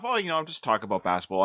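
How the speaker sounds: quick, casual mock backpedal; playing it off. Man voicing Rocky covering for his invite, playing it off. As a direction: imitate someone hurriedly shrugging it off. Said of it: "played it off".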